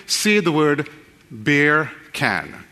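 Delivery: slow, put-on English accent. Shown as a demonstration. Preacher coaching neighbours to try it, slow English accent. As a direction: spell it out slowly as a mock Englishman. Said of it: "As an Englishman".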